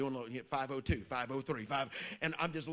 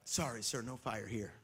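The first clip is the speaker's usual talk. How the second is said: hotel lady, softer; 6 semitones lower, 8 dB quieter than usual. Retold or imitated. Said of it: "This is what the lady said to me".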